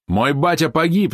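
high, slow anguished shout. A narrator's reading. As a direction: scream out the father's death. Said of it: "закричал Рослый". (громкий крик)

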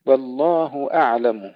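أعلم with the همزة kept apart from the عين; clear hamza and ain. Shown as a demonstration. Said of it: "نفصل الهمزة عن العين". (فصل الهمزة عن العين في أعلم)

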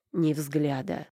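ordinary delivery

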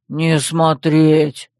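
very slow, brutish growl; growled order. A narrator's reading. Dep orders the green-eyed man off, growling. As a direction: growl it out word by word. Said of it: "рыкнул он".

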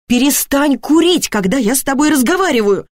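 high-pitched, indignant scolding. A narrator's reading. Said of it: "это почему-то особенно возмутило". (возмущённо, повышенным тоном)

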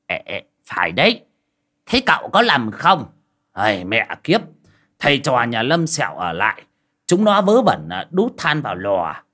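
a mild hint of a sulky crony cursing; pouting old man. Đồng grumbling to the master, lightly pouting. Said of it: "cũng dẩu mỏ lên".

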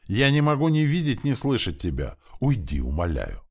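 high, loud outburst easing into begging; distraught cry. A narrator's reading. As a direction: burst out high, then fall into a plea. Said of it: "закричала женщина".

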